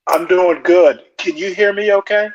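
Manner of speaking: muffled, boomy earbud sound; like talking inside a fishbowl. Real, not acted. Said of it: "It sound like you're in a fishbowl".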